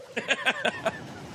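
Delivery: high unvoiced laugh; breathy laugh. Real, not acted. Laughs at the praise.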